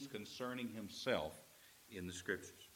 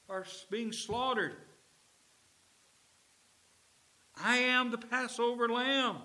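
higher, louder fervent Jesus voice; Jesus pleading; 11 semitones higher, 6 dB louder than usual. Acted. Jesus urging the Emmaus disciples, higher and fervent.

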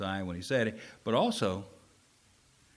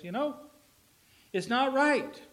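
Jesus rebuffing; 7 dB louder than usual. Acted. Jesus voiced rebuffing woman.

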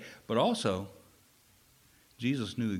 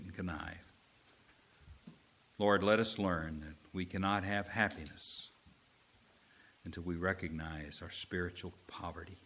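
pastor's closing prayer, steady and earnest; earnest pastoral prayer; 2 semitones lower than usual. Real, not acted. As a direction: pray over the congregation.

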